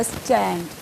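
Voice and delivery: "स्टैंड" drawn out as the stressed syllable; stressed long syllable. Shown as a demonstration. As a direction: take time over "स्टैंड", giving it full weight. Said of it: "ये time ले रहा है ना".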